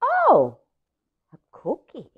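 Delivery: high gasp of delight, then a tiny voice; little duckling thrilled by the cookie. Acted. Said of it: "little duckling goes".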